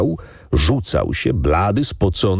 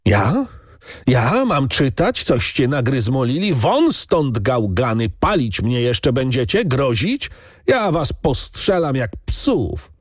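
high, indignant, slowing into threats; furious outburst; 7 semitones higher than usual. A narrator's reading. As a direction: lose your temper completely. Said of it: "Trestka wychodził z siebie".

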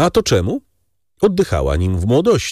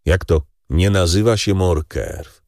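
Monte Cristo, feigning surprise. Acted. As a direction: echo his words back coolly. Count echoes in disbelief.

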